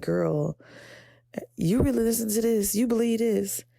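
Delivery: high mocking voice of a doubting inner critic; inner saboteur voice. Her own inner saboteur taunting her, high and mocking. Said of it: "the self-saboteur in the back of your mind is like".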